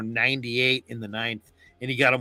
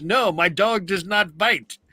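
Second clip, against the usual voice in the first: retold movie line; 6 semitones higher, 3 dB louder than usual. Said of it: "And he goes".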